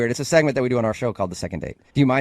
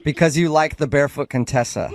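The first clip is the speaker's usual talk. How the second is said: laughing disbelief. Real, not acted. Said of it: "That's hilarious".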